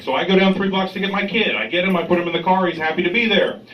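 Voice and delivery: mildly worked-up storyteller, imitating indignation; incensed retelling. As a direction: retell it with a touch of outrage. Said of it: "he's incensed and enraged".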